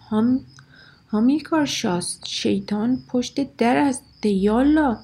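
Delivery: urgent loud yell with a slow middle. Acted. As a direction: yell at him to hurry. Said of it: "سرش داد کشید". (فریاد عجولانه و بلند سر پدربزرگ)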